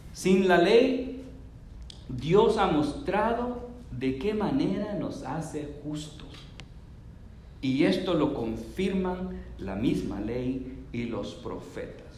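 slow, measured reading rising at the end; slow scripture reading. Acted. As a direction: read the verse slowly, building. Reads verse slowly.

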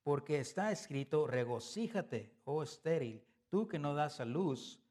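loud, measured reading of scripture; preacher reading Isaiah aloud with weight. Acted. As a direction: proclaim the verse slowly to the congregation. Reads Isaiah aloud in sermon.

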